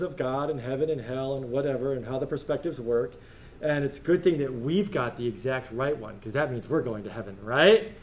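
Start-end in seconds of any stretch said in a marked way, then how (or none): 3.6-7.9 dry, lower, mock-confident sarcasm; tongue-in-cheek smugness about having it all right; sarcastic. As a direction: say it like you don't believe it. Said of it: "They're not supposed to use sarcasm".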